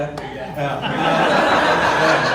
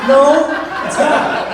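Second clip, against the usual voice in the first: higher, louder, sarcastic and laughing; loud ironic no; 9 semitones higher, 8 dB louder, slower than usual. Retold or imitated. Clutching himself, loudly telling the ex it's a bad time. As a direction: yell the denial through a laugh. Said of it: "I grab my penis, and I'm like".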